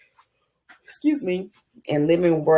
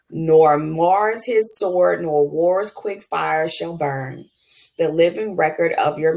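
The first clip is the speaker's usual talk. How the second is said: slow, measured recitation of a sonnet; poem reading. Acted. Teacher reading Shakespeare's sonnet aloud to the class, slow and measured. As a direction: read it like a poem, lingering on each line.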